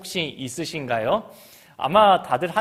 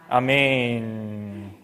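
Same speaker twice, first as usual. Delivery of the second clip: drawn-out amen; 5 semitones lower, much slower than usual. Acted. Pastor ending the scripture reading with a slow amen. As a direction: let 아멘 fade slowly.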